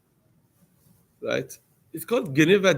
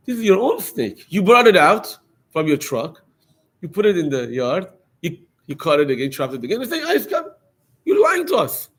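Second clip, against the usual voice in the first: angry scolding; 2 semitones higher, 4 dB louder than usual. Retold or imitated. Neighbour lady accusing the trapper of lying, rising angry shout. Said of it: "one of the ladies starts screaming".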